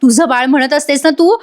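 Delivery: a lightly voiced angry wife; retold anger. Wife warning Arya the baby is hers, mild mock fury. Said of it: "Nandini चिडते आणि म्हणते".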